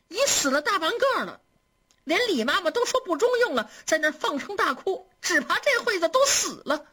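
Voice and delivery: a maid half in tears, pressing her fear; tearful pleading. Acted. Maid pleading with her mistress, mildly tearful. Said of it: "哭着说".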